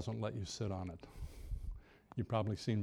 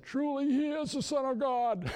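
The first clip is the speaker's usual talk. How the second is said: awestruck shout; 13 semitones higher than usual. Retold or imitated. Apostles in the boat cry out in amazement, shouting. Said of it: "And they said".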